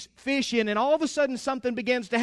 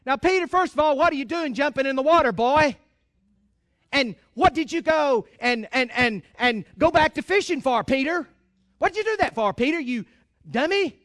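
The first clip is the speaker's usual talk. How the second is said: preacher mocks the harsh God people imagine; harsh scolding God; 2 semitones higher, 4 dB louder than usual. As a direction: scold him like a fed-up parent. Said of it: "that's how a lot of people image God".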